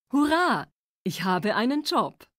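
a happy little hurrah; cheering. Acted. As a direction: cheer about the new job. Cheering about having a job.

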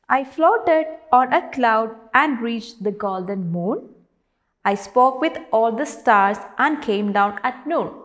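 teacher reciting poetry to a class; poem recitation. Acted. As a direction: recite the verse out clearly, word by word. Reads the poem aloud.

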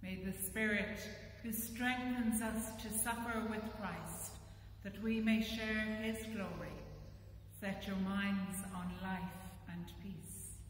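solemn blessing. Acted. Priest blessing the congregation at the end of the service, solemn and formal. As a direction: pronounce it over the people, lifting toward the middle.

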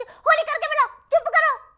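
high, loud teacher's shout for silence; scolding yell. Acted. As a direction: yell down a noisy classroom. Teacher silencing a noisy class. (ਉੱਚੀ ਝਿੜਕ ਮਾਰ ਕੇ)

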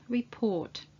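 report, with no R before the T; silent R. Shown as a demonstration. Teacher shows the British report, R left silent. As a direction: drop the R in report, British style. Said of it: "or it's not pronounced at all".

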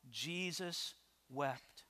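hushed, slow and low, with weight; solemn. Acted. Preacher quoting the verse to the congregation, solemn and hushed. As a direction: let the verse fall softly, word by word.

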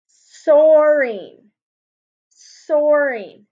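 soaring with the oar part punched; teacher stressing oar in soaring; soaring, oar stressed. Shown as a demonstration. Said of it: "it has the O A R".

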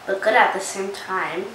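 speaking between bites; talking while chewing. Real, not acted. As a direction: mouth partly full of snack. Seen 0: Girl picks small snack pieces, raises them to mouth while talking.

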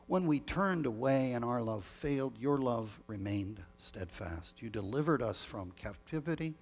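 measured, solemn prayer voice; liturgical prayer. Acted. Leads the Great Thanksgiving prayer.

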